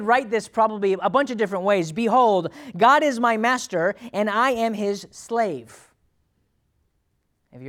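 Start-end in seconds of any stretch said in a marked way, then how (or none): 1.9-5.9 loud, high proclamation; Mary. Acted. Mary declaring herself God's slave, grand proclamation. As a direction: declare it grandly, slowing to a close. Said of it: "talked that way to the Lord".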